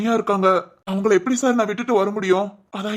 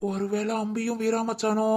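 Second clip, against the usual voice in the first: slow, much softer musing to himself; inner thought; 7 dB quieter than usual. Acted. Son privately worrying where Veera is, soft slow inner voice. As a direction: think it aloud under the breath.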